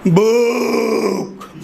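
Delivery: slow, dragged primitive grunt; caveman grunt. Retold or imitated. Comic talking to his audience, drawn-out caveman grunt. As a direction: stretch the word out like a first caveman. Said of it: "ऐसे बोला होगा".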